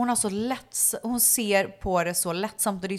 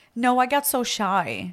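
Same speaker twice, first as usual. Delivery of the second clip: put-on shy child; 3 semitones higher, slower than usual. Mother voices her shy son.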